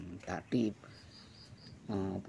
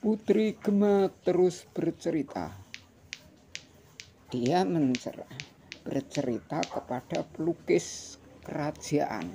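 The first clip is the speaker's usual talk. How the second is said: over enunciating; 7 semitones higher, 7 dB louder than usual. A narrator's reading. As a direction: count each stack out for kids. Reading picture book aloud.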